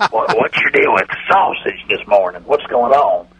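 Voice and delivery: a hint of the Cowboys owner on a bad phone line; Jerry Jones impression. Radio bit, owner greeting the hosts, light folksy impression. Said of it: "let's welcome Jerry Jones".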